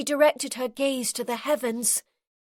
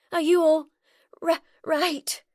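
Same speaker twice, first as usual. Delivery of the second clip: hesitant whisper; 5 semitones higher, 4 dB louder than usual. A narrator's reading. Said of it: "Rayna's hesitant whisper".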